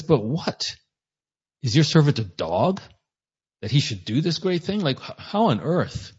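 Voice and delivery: mildly acted bewilderment, rising in pitch; puzzled protest, lightly acted; confused disbelief. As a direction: play a baffled servant questioning a prophecy. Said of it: "Hazael's confused".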